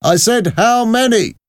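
high, loud repeated demand; insistent soldier. Acted. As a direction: repeat it forcefully as an impatient soldier. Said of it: "the soldier repeated".

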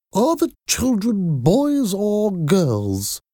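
very high, slow, strange caller; high voice with a cold. A narrator's reading. Odd phone caller asking about the children, high voice with a cold. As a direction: put on a high-pitched, bunged-up head-cold voice. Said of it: "had a high voice and talked as if she had a bad cold".

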